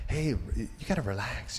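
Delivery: softly retold girlfriend calming him; gentle reassurance. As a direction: quote a gentle, soft coaxing.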